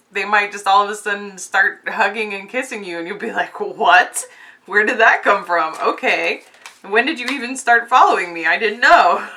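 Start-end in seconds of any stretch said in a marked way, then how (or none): 3.6-9.3 loud, startled questions; surprised. Pretend. Viewer startled when their lover suddenly shows up, loud surprise. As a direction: play it caught completely off guard.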